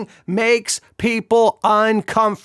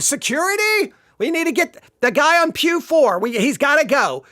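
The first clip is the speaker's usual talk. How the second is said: higher, urgent pretend usher; mock usher calling security; 5 semitones higher than usual. Usher wants the laughing guy removed, hammed-up alarm. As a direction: play a flustered usher calling for help.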